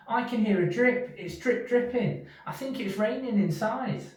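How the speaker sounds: high, anxious little mouse; a tiny mouse sure it's raining indoors. Acted. Little Mouse tells Big Mouse about the drip: high worried voice.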